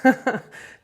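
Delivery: laughing, winded admission; real winded chuckle between phrases; out of breath. Real, not acted. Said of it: "I'm out of breath".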